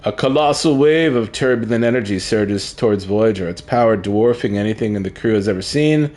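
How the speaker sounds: dramatic read-aloud, lifting at the threat; narration. Pretend. Streamer narrating the surge toward Voyager, dramatic narration. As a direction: narrate the ship in peril. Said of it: "Let me just narrate".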